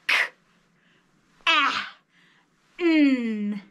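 K, A, N each hit short and separate; punched sounds. Shown as a demonstration. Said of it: "Punch the sounds".

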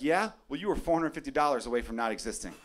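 hammed-up fed-up father; mock angry dad. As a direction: scold the kid at bedtime, laughing. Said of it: "And I'm gonna be like".

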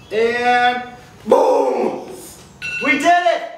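high, loud victory cheer; triumphant shout. Real, not acted. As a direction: celebrate like you won. Finishing the squat set.

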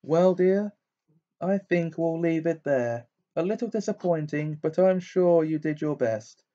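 lightly voiced, airy fortune-teller; a hint of a dreamy seer, high; mystic teacher voice. Trelawney disappointed.

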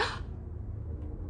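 sharp surprised gasp, breathy; big startled intake of breath; demo gasp. Shown as a demonstration. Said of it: "Can you make a big".

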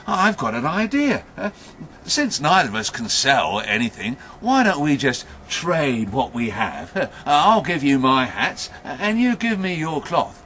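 lightly acted, emphatic man with an idea; eager hat seller. Hat seller proposes a trade.

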